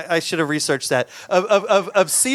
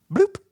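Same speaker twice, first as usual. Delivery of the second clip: imitated bloop. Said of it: "it looked like this".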